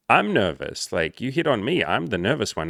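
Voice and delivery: lightly voiced protesting woman; a hint of her indignant protest; imitated nervous woman. Coach retelling her nervous comeback, lightly mimicked woman's voice.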